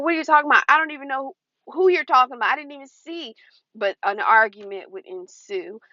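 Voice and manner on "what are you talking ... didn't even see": higher, fast, protesting innocence; defensive disbelief. Retold or imitated. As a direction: rush out bewildered denials. Her own defensive reply.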